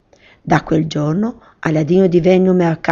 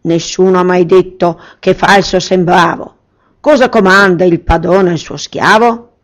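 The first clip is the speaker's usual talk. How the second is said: reciting genie; 5 dB louder than usual. Acted. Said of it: "recitò il genio".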